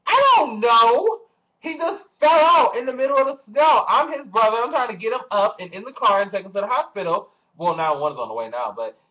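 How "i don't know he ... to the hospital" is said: much higher, louder, strained panicked voice; shrill helpless panic at the neighbours; high, loud, stretched-out distress; frantic high-pitched panic. Retold or imitated.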